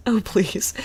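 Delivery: whispered, breathy mock "Oh, please."; mock intern. Quoting the intern on TV, whispered sneer. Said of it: "First off, he says".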